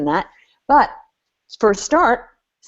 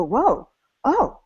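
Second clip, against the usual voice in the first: impressed whoa; 5 semitones higher than usual. Retold or imitated. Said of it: "they actually go".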